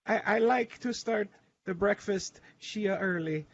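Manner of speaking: put-on slow, high Hispanic granny accent; drawn-out imitated Hispanic accent; mock Hispanic accent. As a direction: quote her haltingly in a Hispanic accent. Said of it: "This is my accent".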